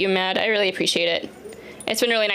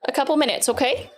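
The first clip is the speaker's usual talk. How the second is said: pet talk voice; 6 semitones higher than usual. Real, not acted. Talking to dog, high baby voice.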